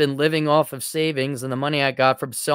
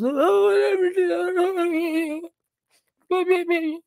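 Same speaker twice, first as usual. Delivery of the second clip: mock British accent; 13 semitones higher, slower than usual. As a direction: shrug it off like a bored British teen. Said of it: "With a British accent, of course".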